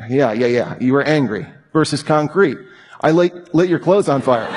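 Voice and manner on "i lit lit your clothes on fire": giggling as the words come out; can't keep a straight face saying it; laughing through it. Real, not acted. Preacher cracking up at his own example, laughing. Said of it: "I couldn't say it without laughing".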